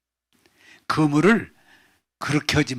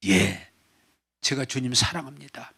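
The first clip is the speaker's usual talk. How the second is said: soft fading reply; 2 semitones lower, 6 dB quieter than usual. Acted. Peter's answer, fading.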